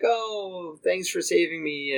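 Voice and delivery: high, soft princess voice; mock rescued princess. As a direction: play a grateful princess, high and hushed.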